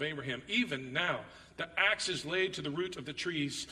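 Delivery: measured, declaiming scripture reading. Acted. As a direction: read the verses out like a preacher.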